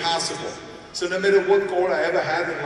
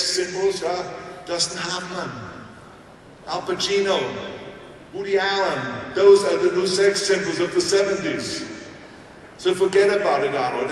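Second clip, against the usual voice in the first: mock Hollywood agent; 4 semitones higher than usual. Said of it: "They again said".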